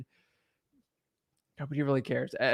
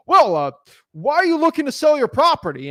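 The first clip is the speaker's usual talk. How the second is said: higher and louder, a stiff put-on pitch; mock salesman asking a seller, higher and louder; weird sales voice; 8 semitones higher, 7 dB louder than usual. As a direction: sound like a robotic salesman reading a script. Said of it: "they start talking like this weird sales, like, thing, and it looks like a robot".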